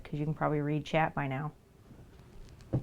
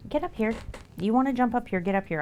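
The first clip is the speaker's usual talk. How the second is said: high, louder coaxing call; cheerful calling to a pet; pet talk; 6 semitones higher, 4 dB louder, faster than usual. Real, not acted. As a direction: lure the cat up. Calling cat onto table.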